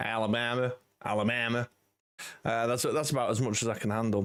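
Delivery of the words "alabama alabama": homemade Alabama accent attempt. Answering a chat comment, showing a version of the alabama accent: put-on alabama accent. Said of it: "my version of the Alabama?".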